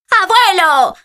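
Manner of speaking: agudo y efusivo, como un niño que ve a su abuelo; exclamación alegre y aguda; saludo alegre. Acted. Nieto saluda al abuelo al llegar. (saludo alegre)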